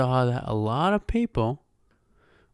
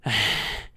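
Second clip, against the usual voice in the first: mock winded exhale; wheezy sigh; 6 semitones lower than usual. Podcaster mocking himself last week, exaggerated wheezy breath. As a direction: imitate labored breathing before speaking. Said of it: "That was me last week".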